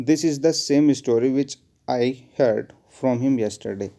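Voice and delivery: very slow, spaced sentence reading; slow dictation. Shown as a demonstration. Teacher dictating the sentence to the class, slowly. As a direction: read it word by word for notes. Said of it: "teacher dictates example sentence".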